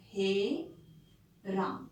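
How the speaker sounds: हे राम very slow, with the हे held long; हे राम drawn out, हे held for three beats; long, slow Hey Ram. Shown as a demonstration. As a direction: stretch हे राम out like a last dying breath. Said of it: "जो लंबा खींचा है".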